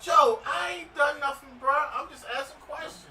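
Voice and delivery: loud, high protest; defensive shout. Real, not acted. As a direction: yell your innocence. Defending himself to friend, laughing.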